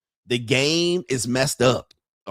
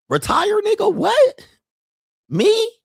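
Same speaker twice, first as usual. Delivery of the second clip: much higher, squeaky outrage at the idea; mock disbelief; 3 dB louder, slower than usual. Mocking a doctor who won't retire, squealing disbelief. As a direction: shriek it like retiring is absurd.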